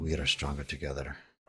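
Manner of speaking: quiet mumbled mutter under the breath. Voicing a character speaking to the four others: muttered under the breath. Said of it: "mutter under his breath".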